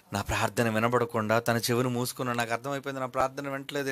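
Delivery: low, hushed admission; acted resignation. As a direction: quietly concede that the prayer goes unheard. Acted realisation prayer goes unheard.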